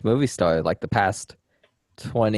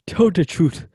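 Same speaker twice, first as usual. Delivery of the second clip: mock African accent, pitched up; bad African accent; 6 semitones higher, 3 dB louder, slower than usual. Co-host mimicking an actor's line in Concussion, bad African accent. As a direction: put on a hammed-up African accent. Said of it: "a bad African accent".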